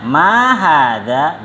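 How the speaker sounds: MA stretched and arched, HADZA drawn out to a rise; very slow question tune on "Ma hadza"; question intonation. Shown as a demonstration. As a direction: model "Ma hadza" as a long, lilting question. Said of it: "Jadi intonasinya seperti itu".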